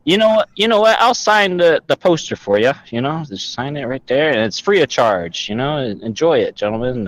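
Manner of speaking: sweet-talking the guards into it; character voice. Acted. Player voices character charming guards.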